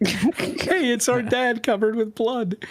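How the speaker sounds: put-on high childish exclamation. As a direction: play the excited kids. Children's line read in voice.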